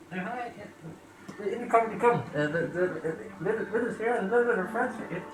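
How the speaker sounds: high voice calling from another room. Acted. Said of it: "you can hear a voice like".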